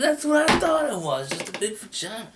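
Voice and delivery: a hammed-up squeak of surprise; mock high voice. Retelling his reply to the bush, squeaky. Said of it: "I said".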